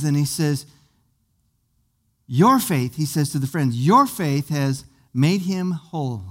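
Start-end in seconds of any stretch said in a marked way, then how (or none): 2.3-3.0 lower, slow solemn voice of Jesus; lightly voiced, lowered Jesus; gentle Jesus. Jesus speaks to the friends. 3.8-6.2 lower, slow solemn voice of Jesus; lightly voiced, lowered Jesus; gentle Jesus. Jesus speaks to the friends.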